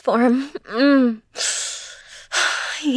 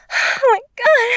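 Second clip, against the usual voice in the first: much higher, full voice cry; high loud cry; 10 semitones higher, 3 dB louder than usual. Acted. Crying out to her partner, loud high exclamation. Repeated exclamation, louder take.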